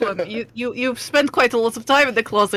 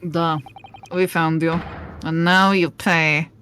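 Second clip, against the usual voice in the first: put-on questionable Eastern European accent; 3 semitones lower than usual. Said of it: "questionable Eastern European accent".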